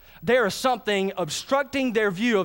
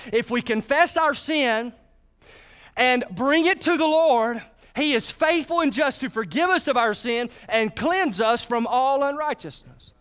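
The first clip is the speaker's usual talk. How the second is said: scripture reading; 3 semitones higher than usual. Acted.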